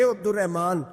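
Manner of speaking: angry reproach. Retold or imitated. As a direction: reproach a friend, pitch climbing toward the end. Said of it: "ایک صحابی غصے سے بولے".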